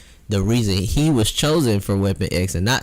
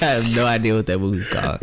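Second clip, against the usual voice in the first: laughing. Real, not acted. Repeated while laughing.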